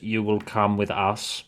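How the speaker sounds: slow, flat robot voice. Acted. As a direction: speak like a cold machine. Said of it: "Bigger man in robot voice".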